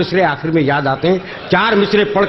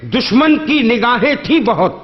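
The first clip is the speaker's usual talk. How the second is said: measured, lingering verse delivery; poetry recitation; slower than usual. Acted. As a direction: recite each line slowly for effect. Mushaira couplet recital.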